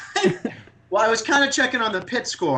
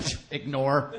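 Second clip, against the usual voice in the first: dismissive scoff; 5 semitones lower, 6 dB quieter, slower than usual. Retold or imitated. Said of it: "You're like".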